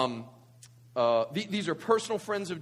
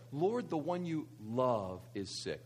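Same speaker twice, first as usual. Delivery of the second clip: slow line with "love" set apart and held; stress on love; 6 semitones lower, 7 dB quieter, slower than usual. Shown as a demonstration. Preacher reinforcing the verse for the congregation, stress on "love". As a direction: pause before "love", then stretch it. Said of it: "let's just reinforce that together".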